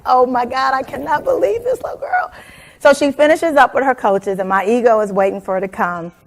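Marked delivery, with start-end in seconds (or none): 0.0-2.3 exasperated ego. Retold or imitated. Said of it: "my ego is like".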